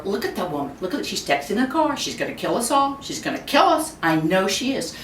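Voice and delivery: a nervous passenger spiralling; mock panic. A passenger fearing the texting driver, mock panic.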